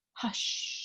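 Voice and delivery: plain line ending in a whispered hush. A narrator's reading. Old lady shushing the bunny, whispered. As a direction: let the hush fall to a whisper. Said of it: "old lady whispering".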